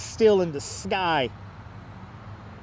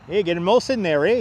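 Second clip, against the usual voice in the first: put-on Canadian accent; 2 semitones lower, faster than usual. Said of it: "I did ace Canadian accent".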